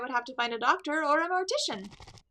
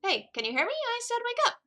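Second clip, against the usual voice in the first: much higher, pleading demand; urgent insistence; 11 semitones higher than usual. Acted. Partner urges the unconscious lawyer to wake up. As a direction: shake him awake with your voice.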